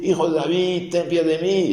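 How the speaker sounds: high, pleading cry of a blind beggar. Retold or imitated. A blind beggar shouting to Jesus over the crowd, high pleading cry. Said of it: "Y empieza a gritar".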